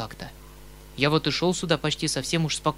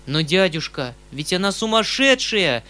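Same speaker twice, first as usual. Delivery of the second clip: louder, alarmed outburst; forgetting himself; 4 semitones higher, 7 dB louder than usual. A narrator's reading. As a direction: burst out before you can stop yourself. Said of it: "вскричал я, забывшись".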